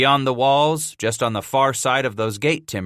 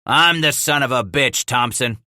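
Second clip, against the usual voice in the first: yelled; 3 dB louder than usual. Acted. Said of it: "Walker yelled".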